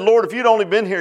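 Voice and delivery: a touch of impatient complaint, acted; imitated impatient anger. Martha to Jesus after her brother died, mildly impatient. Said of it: "you have a impatient anger".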